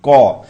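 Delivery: क with the closing "अ" clearly sounded; audible final vowel. Shown as a demonstration. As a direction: say क as "kaw", letting the vowel ring. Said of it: "last में अ सुनाई देता है".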